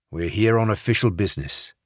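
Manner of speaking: a light put-on English accent. Barrett bluffs the guard as MI6, faint English accent. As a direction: play the English agent, lightly British. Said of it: "said in his best English accent".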